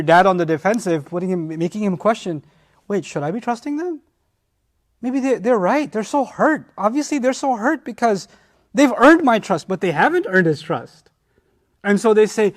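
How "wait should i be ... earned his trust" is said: father's doubt. Acted.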